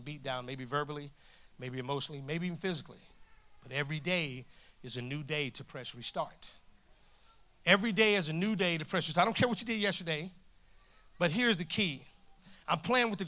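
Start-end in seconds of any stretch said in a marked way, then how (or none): 3.6-6.5 low, softer preacher's assurance; understated, measured hope; gentle encouragement. Real, not acted. Same line, first gently, then forcefully. 7.7-10.3 lifted, firmer repeat to the crowd; energised preacher's insistence; emphatic encouragement. Real, not acted. Same line repeated with force.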